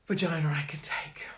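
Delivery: hushed whisper; whispered, half to herself; whispered aside. Real, not acted. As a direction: drop into a whisper. Aside whispered about the dog.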